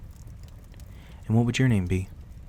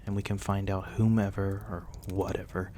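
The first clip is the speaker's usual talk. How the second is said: softer, gentle reassurance to rest; soft goodnight; 5 dB quieter than usual. Acted. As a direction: soothe them toward sleep. Saying goodnight to the injured guest.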